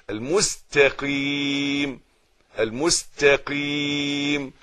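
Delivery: المستقيم with a light seen, not a saad; clear seen. Shown as a demonstration. Teacher correcting the seen in المستقيم. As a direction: keep the seen in المستقيم thin. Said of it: "السين مس، مش مص".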